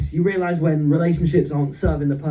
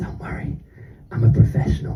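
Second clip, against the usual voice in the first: hushed whisper, close to the ear; 5 semitones lower than usual. Retelling what the hairdresser leaned in and said to him, in a whisper. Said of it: "He leans in and he whispers".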